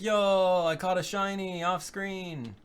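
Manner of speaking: high-pitched, drawn-out excited boast; mock excitement. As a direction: imitate someone thrilled, stretching it out high. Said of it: "Okay, he got really excited. He's like".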